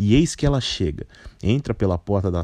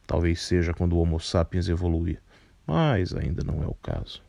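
put-on a lightly lowered, composed older man; low, measured voice; 3 semitones lower than usual. Carpinteiro continues.

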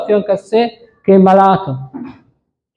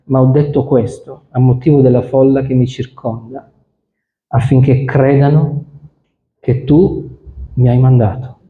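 solemn scripture reading. A narrator's reading. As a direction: read the Gospel aloud to the congregation. Preacher reads the Lazarus story.

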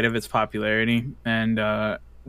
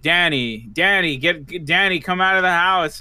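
retold yelling; 5 semitones higher than usual. Friend calling Danny out of the house, mock yelling. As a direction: call out like you're imitating your own yelling. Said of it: "I started yelling".

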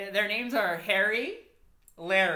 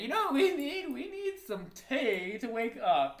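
put-on British accent; 5 semitones higher than usual. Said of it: "Some tea, 'cause they're British".

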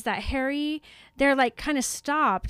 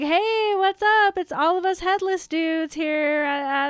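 higher, louder swaggering bro greeting; headless bully bro voice; 6 semitones higher, 4 dB louder than usual. Acted. Headless hunt leader greeting the party, cocky and loud. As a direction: crash the party like a cocky jock. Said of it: "he's like".

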